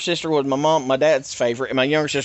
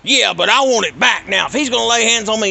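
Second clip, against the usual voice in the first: high, louder whiny father voice; mocking his dad; 9 semitones higher, 7 dB louder than usual. Dad insists.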